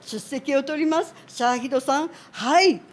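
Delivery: fast Japanese roll-call, student answering "हाय"; imitating her Japanese roll call, quick and light; teacher taking roll. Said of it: "बहुत हैरान था".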